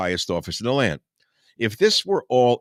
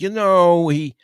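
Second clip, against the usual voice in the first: mock pious voice; 4 semitones higher, 3 dB louder than usual.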